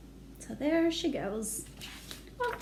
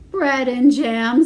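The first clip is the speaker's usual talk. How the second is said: emphatic; 11 dB louder, slower than usual. Acted.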